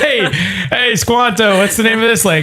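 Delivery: high, brash calling out; explorer calling. Acted.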